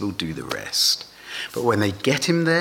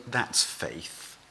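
quiet Jesus reply; 6 semitones lower, 10 dB quieter than usual. Pretend. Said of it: "if you are Jesus, you would say".

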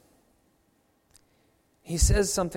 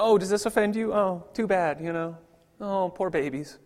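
sarcastic; 3 semitones higher than usual. Retold or imitated. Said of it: "me being somewhat sarcastic and snarky".

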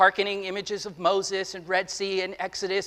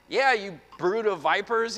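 voicing John. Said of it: "he says".

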